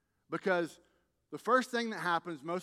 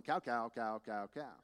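lightly droned, lower-pitched repetition; indifferent droning; 4 semitones lower than usual. Acted. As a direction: rattle them off without any connection. Repeats indifferent thought, no connection.

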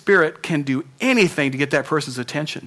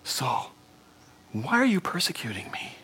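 soft, soothing, hushed calling of a name; calm him down, softly; hushing voice of Jesus; 5 dB quieter than usual. Pretend. Jesus hushing the fallen Saul, gentle and soft. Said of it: "a voice saying to him".

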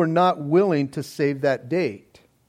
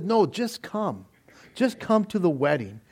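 softer, simple open welcome; gentle invitation; 5 dB quieter than usual. Retold or imitated. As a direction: ease down into an unconditional invitation. Voices the king's unconditional invitation.

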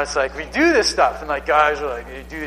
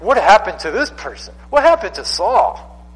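higher, louder astonished voices; amazed prophets; 6 semitones higher, 4 dB louder than usual. Retold or imitated. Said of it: "they're like".

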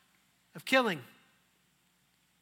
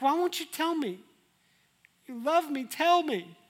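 higher, pushy wheedling plea; whiny pleading; 6 semitones higher than usual. Acted. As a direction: nag him to tell. Delilah pleading.

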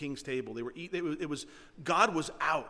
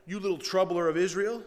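Ahab's taunt; 4 semitones higher, 8 dB louder than usual. Retold or imitated. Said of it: "Elijah, standing before Ahab".

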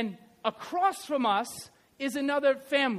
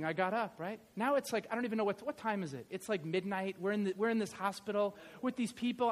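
ordinary talk, nothing marked

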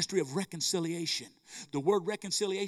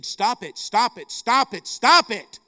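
each repeat louder, ending in a shout; building emphatic command; 3 semitones higher, 10 dB louder, slower than usual. Real, not acted. Preacher urging those living in religion, mounting to a shout. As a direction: hammer the repeats, growing louder.

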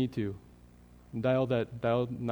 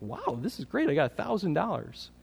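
thrilled; 6 semitones higher than usual. Retold or imitated.

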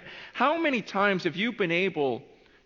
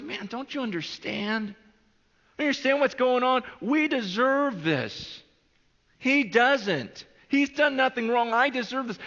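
earnest rebuke; 8 semitones higher than usual. Retold or imitated. Acted rebuke between the two criminals.

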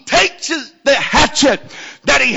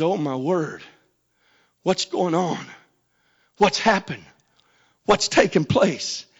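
low, soft, halting stunned words; imitating a man in quiet shock; hushed dismay; 5 semitones lower, 8 dB quieter than usual. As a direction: drop to a hush, long gaps between questions. Man's stunned realization, voiced in story.

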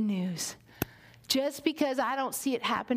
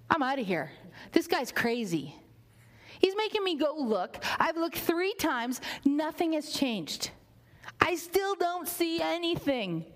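rebellious servant; 3 semitones higher than usual. Acted. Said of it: "rebellious and be like".

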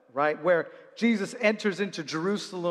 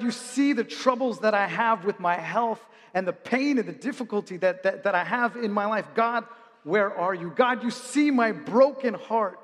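crying out to God; 3 semitones higher than usual. Retold or imitated. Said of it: "you've said things to God like".

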